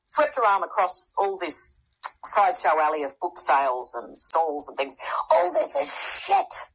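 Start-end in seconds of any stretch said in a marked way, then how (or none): 5.3-6.7 high, drawn-out retold outcry; pitched-up cry of protest at moderate volume; mock yell. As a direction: imitate a victim yelling it, stretched and high. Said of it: "victim yelled".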